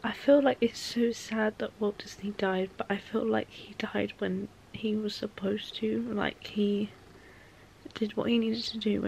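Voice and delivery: soft, slow, unvoiced through tears; tearful whisper. Real, not acted. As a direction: whisper it while crying. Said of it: "never cried this much".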